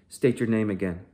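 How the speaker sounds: loud, clipped command to the prisoner; stern order. Acted. Soldier orders Bassam to repeat his name, loudly. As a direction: bark the order at him. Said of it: "I said".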